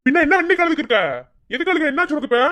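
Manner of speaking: high-pitched insistent questioning; worried demanding. Acted. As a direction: press for an answer, voice climbing. Pressing crying girlfriend for the reason.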